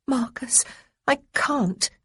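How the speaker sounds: put-on gently hurried, unsure young woman; lightly voiced young woman. A narrator's reading. Young woman to feverish Marcus, lightly nervous. Honoria refusing, torn.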